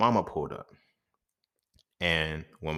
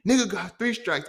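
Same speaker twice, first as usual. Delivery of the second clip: put-on Melvin from Baby Boy; 12 semitones higher, 5 dB louder than usual. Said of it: "dude on Baby Boy, Melvin".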